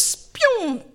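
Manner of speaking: high-pitched imitated zoom; whooshing sound. Husband whisks carrier over bridge, high whoosh. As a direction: swoop high like a cartoon launch.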